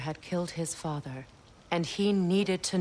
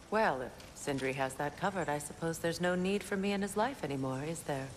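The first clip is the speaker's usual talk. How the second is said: dry, understated sarcasm; mock-resigned, ending on a wry tag question; sarcastic; 3 dB quieter than usual. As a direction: feign being no longer needed. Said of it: "That was sarcasm".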